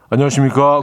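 lightly put-on solemn formal hello; a mild mock-serious employee greeting; formal low greeting. Shown as a demonstration. Co-host showing the other extreme for the boss, mock-solemn. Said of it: "그 중간을 찾으셔야 될 텐데".

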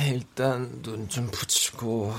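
drowsy, slow mumble; barely awake, fading out; sleep deprived. Acted. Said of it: "졸음이 쏟아지는 상태".

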